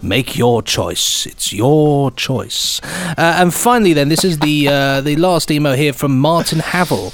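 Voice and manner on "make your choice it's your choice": slow, low, doom-laden "Make your choice"; ominous slow pronouncement. Pretend. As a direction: intone it like a sinister quiz host. Ominous game-show style pronouncement.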